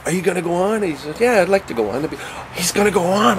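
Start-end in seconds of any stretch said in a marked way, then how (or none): 0.1-0.8 high, squealing starstruck gushing; gushing fanboy. Retold or imitated. Comedians swarming George Carlin, high squealing gush. 1.2-3.4 high, giddy fan voice; mock starstruck echo. Comics fawning over Carlin, giddy high echo.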